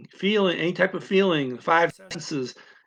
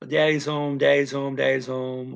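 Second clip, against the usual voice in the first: rote, evenly pitched repeats; imitating words a child hears over and over; constant repetition. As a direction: repeat it evenly like a looped phrase. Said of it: "these constantly repeated phrases".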